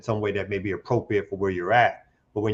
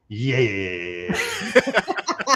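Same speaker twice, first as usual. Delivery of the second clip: imitating Jared; much slower than usual. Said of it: "As Jared would go".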